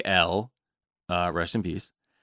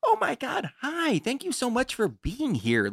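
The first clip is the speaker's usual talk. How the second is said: very high, swooping, put-on nice-guy sweetness; 5 dB quieter than usual. Acting out a guy's very-nice-guy act: fake nice-guy sweetness. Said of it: "switched it on to this like very nice guy thing".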